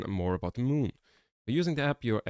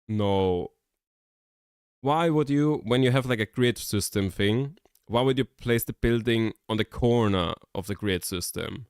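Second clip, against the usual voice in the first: escalating comedy rant; 4 dB louder than usual. Real, not acted. Rant at badly placed building.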